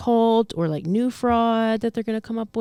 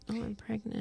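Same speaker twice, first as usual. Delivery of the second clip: soft, higher mock sympathy voice; mock pity plea; 4 semitones higher, 13 dB quieter than usual. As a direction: fake a pitiful plea. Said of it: "play that sympathy card".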